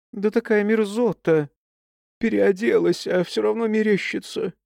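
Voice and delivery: disgusted. Acted. Disgusted at ticks.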